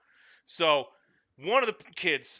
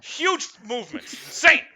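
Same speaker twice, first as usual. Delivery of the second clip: loud, higher, slow laughing emphasis; excited disbelief; 11 semitones higher, 10 dB louder, slower than usual. Real, not acted. Telling friends about the flailing kid, loud laughing disbelief. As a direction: stretch each word out in amazed ridicule.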